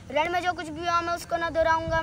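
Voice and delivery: firm rhythmic declamation; full-voiced recital. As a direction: declaim it with force. Full-voiced repeat of verse. (ज़ोरदार स्वर में कविता पाठ)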